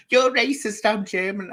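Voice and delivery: high-pitched mock protest; indignant accusation. Woman retelling a rival's racism accusation, mock indignant. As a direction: imitate her protesting loudly and high.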